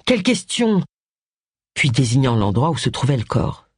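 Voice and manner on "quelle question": mildly huffy exclamation, higher in pitch; lightly indignant retort; sullen. A narrator's reading. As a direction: scoff at being asked, a touch cross. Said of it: "d'un air renfrogné".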